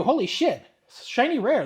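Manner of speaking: real delight at the pull; excited. Real, not acted. Pulling a shiny rare, he exclaims in excitement.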